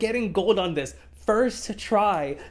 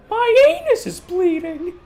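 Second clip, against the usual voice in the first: high shout; 13 semitones higher, 7 dB louder than usual. Pretend. Absurd trailer line.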